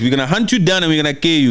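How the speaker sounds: fast run-through of a quoted threat; quick, unbroken quoted warning; retold threat. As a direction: rattle the warning out without pausing. Retold threat, repeated faster.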